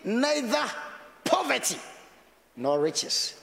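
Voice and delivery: scripture prayed aloud, pleading; prayer voice. Shown as a demonstration. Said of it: "I say".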